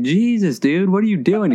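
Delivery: retold appalled exclamation; shocked disbelief. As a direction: replay your astonishment at a wild story. Retells his shocked reaction to trucker.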